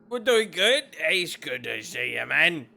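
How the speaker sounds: a hint of a goofy kobold greeting; Brick's new voice. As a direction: player voicing Brick greeting the party, lightly put-on. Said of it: "this is his new voice".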